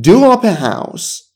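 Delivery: very slow, starting high; slow high model. Shown as a demonstration. Teacher introducing do up, very slowly and high. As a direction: pitch up and stretch it out. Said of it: "دو آپ کنی".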